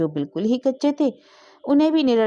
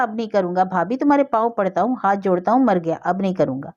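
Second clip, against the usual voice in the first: mocking nasal whine. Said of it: "सानोनिसिक स्वर बनाकर कहने लगी".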